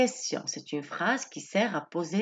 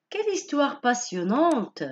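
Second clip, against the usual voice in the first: pitched-up exclamatory reading of "Quelle histoire passionnante!"; exclamation example; 5 semitones higher than usual. Shown as a demonstration. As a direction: read it as a lively exclamation, higher. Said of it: "cette phrase exprime un fort sentiment".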